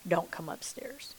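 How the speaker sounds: slow soft whisper; soft slow whispered plea; whispered warning. Retold or imitated. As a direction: hush it, slow and low. Telling husband to stay away.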